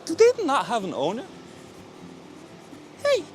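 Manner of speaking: very high, loud pet voice; squeaky praising a dog. Real, not acted.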